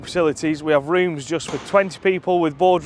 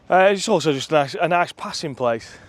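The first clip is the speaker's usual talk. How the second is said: out of breath. Real, not acted. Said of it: "even I'm out of breath now".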